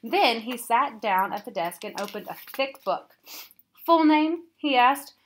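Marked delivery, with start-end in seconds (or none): 3.9-4.5 loud official asking; brisk loud question. A narrator's reading. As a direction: bark out the form question. Frypot registering new student.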